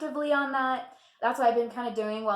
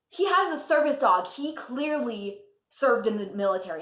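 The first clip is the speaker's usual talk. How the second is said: retold angry customer, raised voice; mock yelling customer; 3 semitones higher, 5 dB louder than usual. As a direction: play the angry customer insisting. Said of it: "she started yelling at me".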